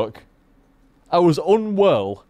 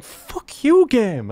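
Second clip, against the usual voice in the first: mock rage; 9 semitones higher, much slower than usual. Retelling a meltdown at the game, a mock angry outburst. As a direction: snap at the game in jest.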